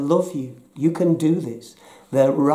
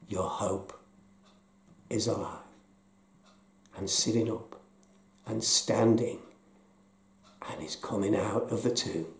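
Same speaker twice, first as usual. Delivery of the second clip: whisper; 5 semitones lower, 8 dB quieter than usual. Real, not acted. Whispered promise of new life.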